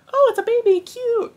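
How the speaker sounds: very high, sweet mock baby-cooing voice; high squeaky gushing over a baby; cutesy high squeal. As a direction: coo it like you just saw a cute baby. Mock reaction to cute baby.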